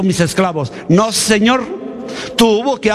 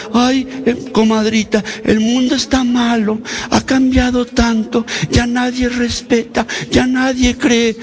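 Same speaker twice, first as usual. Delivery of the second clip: put-on whining old parent; 4 semitones higher than usual. Mocking weepy grandparents' lament.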